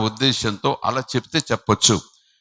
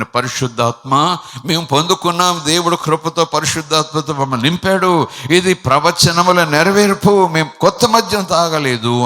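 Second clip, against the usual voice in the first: bold proclamation; 2 semitones higher, 3 dB louder than usual. Acted. Preacher voicing Peter's bold reply, loudly.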